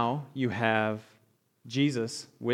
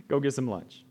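laughing; 8 semitones higher than usual. Real, not acted. Amused echo of Jesus.

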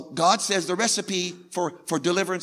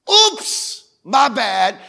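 sheepish oops; 4 dB louder, much slower than usual. Acted. Preacher voices sheepish confession.

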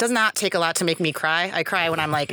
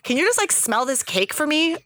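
coaxing Mike; 7 semitones higher than usual. Retold or imitated. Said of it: "he's like".

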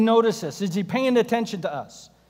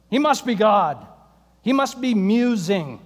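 mocking taunt; 3 dB louder than usual. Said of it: "Elijah called out to them".

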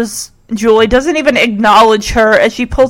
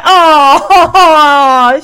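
long, drawn-out "aw"; real fond reaction; touched aw; 3 semitones higher than usual. Real, not acted. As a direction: melt into a fond aww. Melting over the character's greeting.

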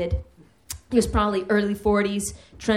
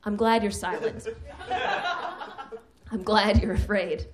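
witch. Retold or imitated. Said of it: "I was in my witch head".

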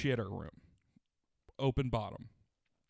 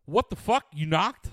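mock indignation; 3 semitones higher, 6 dB louder, slower than usual. Indignant reaction to a knock, retold.

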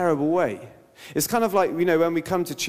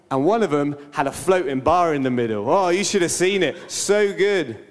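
my story's better person; 2 semitones higher, 3 dB louder than usual. Retold or imitated. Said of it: "what do they say?".

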